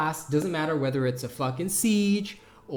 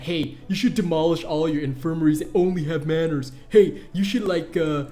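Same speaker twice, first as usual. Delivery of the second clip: mocked guide maker. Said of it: "have made guides saying that".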